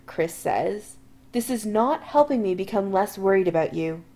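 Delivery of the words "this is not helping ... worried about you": pointedly. Acted. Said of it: "Adam says pointedly".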